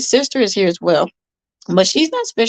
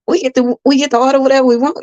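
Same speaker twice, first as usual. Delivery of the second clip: imitating excited kids, higher and quicker; excited children; 4 semitones higher, faster than usual. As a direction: rush it like a child's happy question, lightly acted. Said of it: "they was excited".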